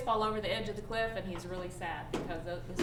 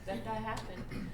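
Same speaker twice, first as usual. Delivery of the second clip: soft empathetic; 5 dB quieter than usual. Retold or imitated. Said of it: "she says".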